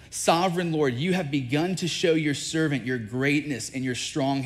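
earnest, emphatic scripture plea; pleading. Retold or imitated. Moses begging God to let him see the land, pleading. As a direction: read it as a heartfelt appeal, leaning on key words. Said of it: "I pleaded with the Lord".

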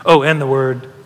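lightly imitated impaired speech; affectionate imitation of labored speech; speech trouble. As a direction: imitate a friend who struggles to get words out. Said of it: "speech trouble, he used to go".

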